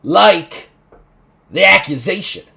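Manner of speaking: offended. Acted. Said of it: "and he's like".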